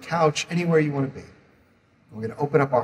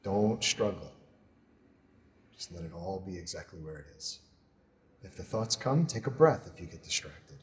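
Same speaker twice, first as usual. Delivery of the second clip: soft, measured meditation voice with long pauses; guided meditation; 7 dB quieter than usual. Acted. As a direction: guide them gently through a body scan, unhurried. Leads a body scan meditation.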